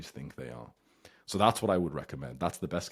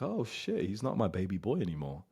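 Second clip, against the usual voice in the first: much higher surprised inner thought; mock parent realising; 3 semitones higher than usual. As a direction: parent stunned their boy grew up. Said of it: "a little bit of them will think".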